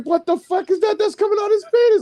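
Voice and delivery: high-pitched alarmed question; scared kid. Retold or imitated. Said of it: "I got scared".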